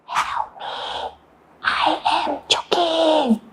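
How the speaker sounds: hushed, feeble plea; very quiet call for help; barely audible. Shown as a demonstration. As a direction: say it too softly to be heard. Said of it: "I can't hear you".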